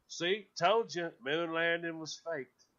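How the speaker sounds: smug. Retold or imitated. Mock conspiracy believer.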